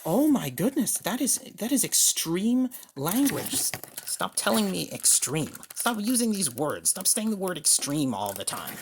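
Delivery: loud, high, indignant outburst; angry shouting. Acted. Patient shouting back at the doctor, angry. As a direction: blow up at the doctor in protest. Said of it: "You need to lower your voice".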